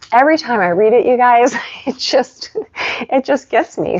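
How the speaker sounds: real emotion, voice catching and breaking; voice cracking. Real, not acted. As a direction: fight back tears while talking. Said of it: "you hear my voice cracking".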